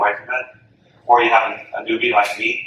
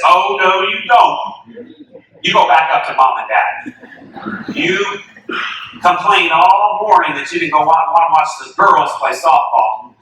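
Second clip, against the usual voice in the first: bossy big sister; 5 semitones higher, 3 dB louder, slower than usual. Retold or imitated. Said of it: "the girl turns around and says".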